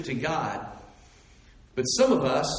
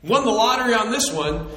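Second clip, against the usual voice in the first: a careless believer cheering forgiven sins; mock glee; 8 semitones higher, faster than usual. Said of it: "and go".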